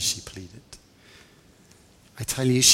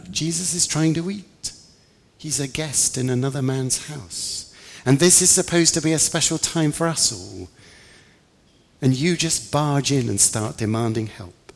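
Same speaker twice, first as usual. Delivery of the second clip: raised, exasperated telling-off; indignant scolding; 5 semitones higher than usual. Acted. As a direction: shame her for barging in. Narrator scolds the woman directly.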